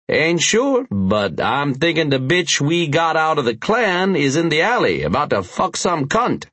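tip him off with a sly grin; sly biker voice. Acted. Hush's voice.

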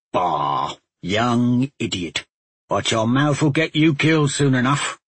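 put-on gruff old woodcat, huffing Bah; gruff huffing badger. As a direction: grumble it out like a crusty old trapper. Badger scolds Talmadge.

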